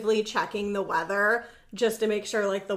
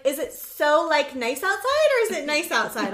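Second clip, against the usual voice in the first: mocking dad; 4 semitones higher, 3 dB louder than usual. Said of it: "And he'll be like".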